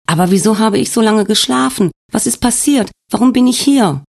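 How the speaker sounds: a frightened patient pleading for answers; Svenja's confused questions. Acted. Svenja begs the nurse to tell her, anxious and high. Svenja, waking in hospital, voiced.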